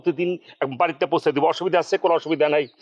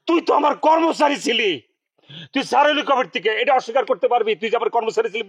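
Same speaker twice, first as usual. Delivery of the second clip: indignant challenge; 3 semitones higher than usual. Acted. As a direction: put the upstart in his place, pitched up. Boss challenges former employee in quarrel.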